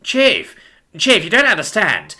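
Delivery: pleading. A narrator's reading. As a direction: plead your case to the boss. Pig pleads with chief.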